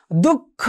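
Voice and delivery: দুঃখ as "duk-kho", k held then released; doubled consonant. Shown as a demonstration. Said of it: "ব্যঞ্জন ধ্বনিটার দ্বিত্ব হয়েছে". (দুঃখ-এ ক আর খ মিলিয়ে দ্বিত্ব)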